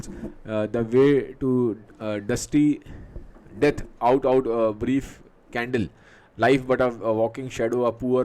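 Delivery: drawn-out, halting reading of the soliloquy; teacher reads Macbeth's soliloquy slowly; slow Shakespeare recitation. Acted. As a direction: let each phrase hang.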